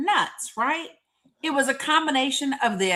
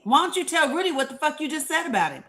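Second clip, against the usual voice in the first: higher and fast, goading; retold yelling at Sydney, fast and pitched up; mock screaming; 5 semitones higher, faster than usual. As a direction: fire it off like egging on a fight. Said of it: "I started screaming at Sydney".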